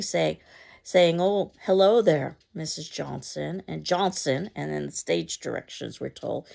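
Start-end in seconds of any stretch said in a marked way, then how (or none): 1.2-3.6 bright hello, slowed and ringing out; ringing cheerful greeting. Acted. Mama greeting the neighbor, ringing cheer. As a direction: sing out a delighted hello. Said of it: "a ringing, cheerful greeting".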